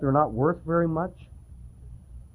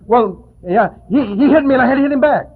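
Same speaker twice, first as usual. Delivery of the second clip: put-on much higher, louder, fast kid's protest; indignant little boy; 7 semitones higher, 6 dB louder than usual. The other little brother defends himself, high fast childish protest. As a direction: insist it's his fault, like a wronged child.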